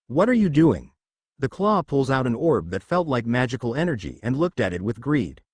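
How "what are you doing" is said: louder, alarmed demand; startled shout. Acted. Boy cries out as a claw reaches inside him, startled shout. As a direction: yelp it out as the claw grabs you.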